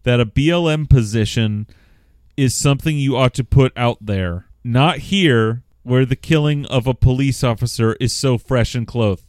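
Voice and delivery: loud, emphatic read-out; reading a letter aloud. A narrator's reading. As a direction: project it, weighting each phrase.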